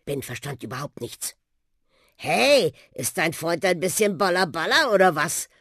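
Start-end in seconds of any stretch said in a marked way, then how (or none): 2.2-5.5 mildly grumbling talking bus. Acted. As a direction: grumble it, drawing out the Hey. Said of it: "brummte der Buschi". (brummiger Bus)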